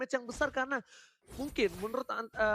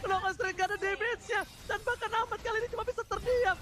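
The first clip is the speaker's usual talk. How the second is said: fighting game announcer; 6 semitones higher than usual. Real, not acted. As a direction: build to a shout as the kills land. Esports caster hyping a team fight.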